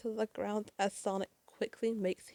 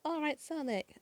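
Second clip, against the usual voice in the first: higher-pitched mock cheer; Tails cheering; 6 semitones higher than usual. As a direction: cheer him on lightly, pitch lifted. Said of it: "Tails cheers out".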